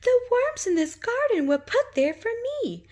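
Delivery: very high, bright little chirp; piping bird voice, high and loud; tweeting bird. Acted. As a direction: tweet it like a tiny bird in a tree. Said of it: "the bird tweeted".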